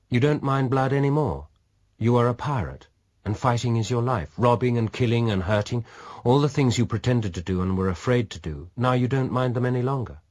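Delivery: a hint of a probing lady; lightly voiced woman, challenging. A narrator's reading. Dona challenges him.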